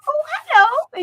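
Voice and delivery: very high, loud cooing hello; high-pitched greeting to a cat; cooing to a kitten. Retold or imitated. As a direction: coo at the kitty. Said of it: "I'm like".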